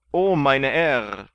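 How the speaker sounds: drawn-out awed exclamation; sergeant's exclamation. A narrator's reading. Sergeant fawning over Kandid's diamonds, slow and loud. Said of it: "sprach der Mann".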